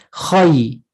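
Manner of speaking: KHAI with a heavy, rounded "khoy" vowel; tajweed pronunciation. Shown as a demonstration. Teacher showing students the challenging kha, Khai said tajweed-style with rounded vowel. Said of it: "what we call tajweed".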